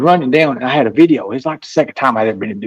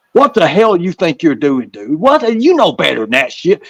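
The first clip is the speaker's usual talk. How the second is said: Predator Hunter voice; 4 semitones higher than usual. Retold or imitated. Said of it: "I used a Predator Hunter voice".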